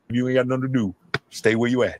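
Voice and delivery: lightly voiced Southern grandma, low. Comedian quoting the Southern grandma's saying, grandma voice. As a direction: give a hint of grandma's low-pitched advice. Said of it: "Like my grandma said".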